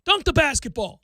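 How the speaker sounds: loud, high fan yell at the screen; frustrated fan barking at the TV. Retold or imitated. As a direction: shout at Ben through the television. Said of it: "I'm yelling at that".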